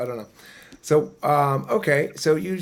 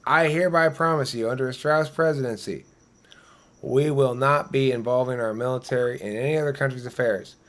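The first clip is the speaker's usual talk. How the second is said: mock campaign promise. Joking would-be president promising voters, mock solemn pledge. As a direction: play a candidate vowing to voters, half in jest. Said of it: "We have President Strauss's word on it".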